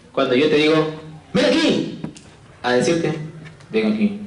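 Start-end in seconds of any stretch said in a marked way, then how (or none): 1.3-2.0 "Ven aquí" said high and sweetly inviting; sweet intonation. Shown as a demonstration. Teacher showing intonation to students, high sweet invitation. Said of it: "La entonación". 3.7-4.2 "Ven aquí" said low and stern; stern intonation. Shown as a demonstration. Teacher showing intonation to students, low stern command. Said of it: "La entonación".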